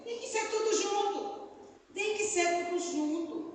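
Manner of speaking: high, insistent imitation of a small child; pleading child. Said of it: "Ele dizia".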